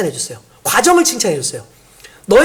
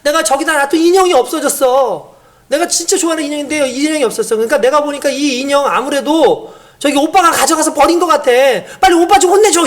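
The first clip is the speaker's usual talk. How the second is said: lightly voiced upset child; whiny child; 3 semitones higher than usual. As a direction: complain like a hurt little kid asking mom to punish her brother. Crying child complains about brother.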